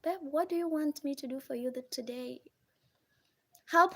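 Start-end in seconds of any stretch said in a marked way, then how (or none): 0.0-2.4 sweet to wife. Retold or imitated. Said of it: "Something like that".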